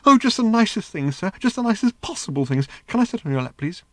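high, breathless robot in raptures; giddy little robot. Acted. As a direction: gush like a robot besotted with everything. Narrator voicing the giddy robot.

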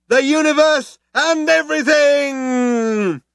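very high oratorical proclamation, stretching out towards the end; crying out. Acted. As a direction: build a grand speech for the crowd. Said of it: "cried the man".

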